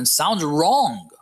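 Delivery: drawn-out stress on WRONG, pitch swooping up and falling; emphatic. Real, not acted. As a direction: lean slowly on WRONG. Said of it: "I wanna emphasize that".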